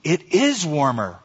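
"is" drawn out with stress; slow realization, leaning on "is"; announcing. A narrator's reading. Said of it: "one from behind him announced".

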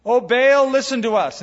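high, loud, wailing plea to a false god; mock desperate crying out. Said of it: "they cried out and kept saying".

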